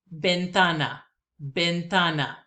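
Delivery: ventana, clearly as a teacher; Spanish word. Shown as a demonstration. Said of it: "words that I will pronounce".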